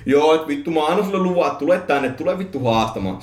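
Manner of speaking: lightly acted goading challenge; mock provoking. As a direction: imitate a man daring a spirit. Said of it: "äijä oli tullut provosoimaan sitä räyhähenkiä".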